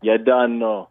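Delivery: Toronto slang accent, lightly put on; Toronto accent attempt. Shown as a demonstration. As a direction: demonstrate your so-so Toronto accent. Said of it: "better than my Toronto accent".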